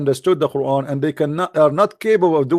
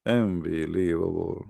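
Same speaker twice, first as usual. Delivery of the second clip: disbelief; 8 semitones lower, 9 dB quieter, slower than usual. Real, not acted. Mock disbelief after pause.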